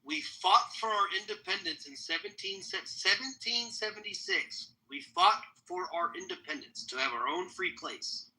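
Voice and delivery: slow, solemn recital of the textbook story; a hint of a patriotic history lesson; mock official history. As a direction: recite it like the schoolbook version you were fed. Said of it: "this is what we're told".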